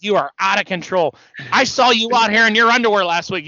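mock scolding that rises in pitch and volume; Piper. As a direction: imitate a wrestler calling out his rival. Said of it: "Piper's like".

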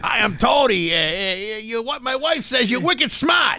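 high, shouted New England caricature; mock New England accent. Husband greets wife's cousin, high mock New England accent. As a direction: play a New England husband at full pitch. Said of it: "my husband Tony".

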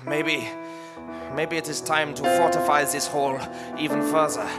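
put-on earnest, comic German accent; rally them in German-accented English; stagey German accent, building in pitch. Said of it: "say in a German accent".

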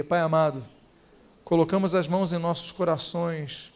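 soft, low prayer voice, unhurried; closing prayer. Acted. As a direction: lead the church gently into prayer. (voz baixa e suave de oração)

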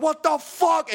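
high-pitched cry of disbelief; acted alarm. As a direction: reenact shock as it worsens. Acting out panic at water.

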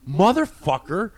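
a slow, drawn-out angry snap; snapping back. Retold or imitated. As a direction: spit it out like you just lost it. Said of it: "And I snap".

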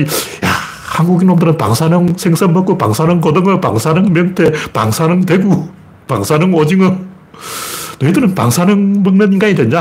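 imitated sneering chant, listing each item; mocking taunt. Chinese people needling Koreans from morning to night, mock sarcastic taunting. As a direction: tease them like a repeated refrain. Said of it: "빈정거린단 말이야".

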